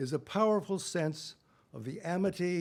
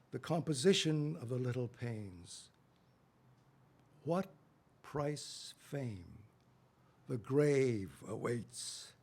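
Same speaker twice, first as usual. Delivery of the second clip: solemn reading. Acted. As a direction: read it like a solemn poem. Reads the poem aloud.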